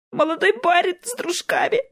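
squeezed out high through tears. Acted. Girl naming her attackers to Dean, tearful and high. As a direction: force the words out while crying, high. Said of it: "сквозь слёзы выдавила девушка".

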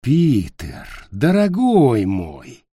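slow, cooing seductive witch; cooing femme fatale. Acted. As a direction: purr it sweetly at Peter. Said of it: "проворковала ведьма".

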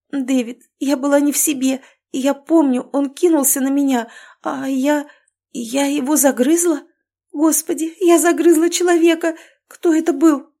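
rising to a high, loud horrified cry; hysterical panic. Acted. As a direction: panic building toward a shriek of horror. Panicked realisation of killing.

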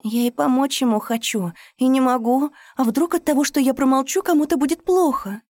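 high, loud sobbing plea; tearful plea into the phone; crying on the phone. A narrator's reading. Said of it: "всхлипывала она в трубку".

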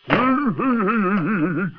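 flustered cry of alarm; startled calling. Acted. Bird arrives at the commotion. (geschrokken roepen)

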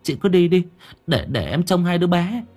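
quick high urging, a touch flustered; urgent urging. Acted. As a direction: push her out the door. Neighbor urging her to go.

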